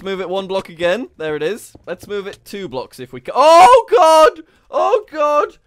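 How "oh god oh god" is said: loud, high startled cry; sudden loud oh God; shocked yelp. Real, not acted. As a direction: blurt it out in real alarm. Mishap moving player in game.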